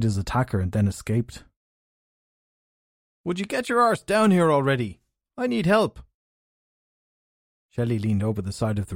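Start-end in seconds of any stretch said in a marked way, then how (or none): 3.2-6.0 high calling up to a rooftop. A narrator's reading. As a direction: call up impatiently from below. Henry calls up from ground.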